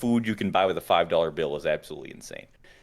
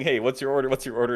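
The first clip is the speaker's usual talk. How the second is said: mild mock call; 6 semitones higher, faster than usual.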